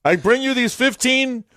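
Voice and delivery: hammed-up biblical pronouncement, drawn out; lightly voiced Moses bringing the tablets; Mel Brooks Moses. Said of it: "what Mel Brooks did ... when he was Moses".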